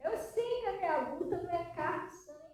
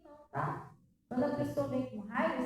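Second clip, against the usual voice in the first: ordinary talk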